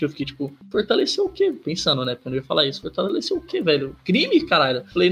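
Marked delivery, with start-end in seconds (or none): 0.7-1.5 high, disbelieving question; incredulous. Retold or imitated. Inner reply to robber, incredulous. 2.8-4.8 incredulous. Retold or imitated. Inner reply, repeated incredulous.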